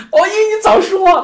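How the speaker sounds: lightly voiced disciple, pitch climbing high at the end; a hint of a flustered disciple explaining himself; Ananda pleading. Teacher voices Ananda protesting to the Buddha, lightly acted. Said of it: "他说".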